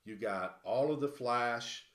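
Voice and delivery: loud, slow excited announcement. Real, not acted. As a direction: stretch it out to show it off. Excited reveal of a big pull.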